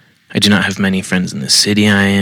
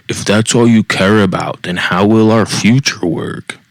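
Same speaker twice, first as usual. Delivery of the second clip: passive-aggressive. Retold or imitated. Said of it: "in that tone".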